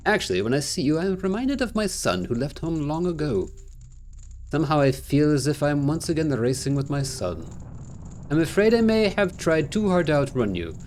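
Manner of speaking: measured, formal reward speech; lightly voiced game character. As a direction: lightly act a courteous old racer handing over a prize. Reads the game figure's dialogue.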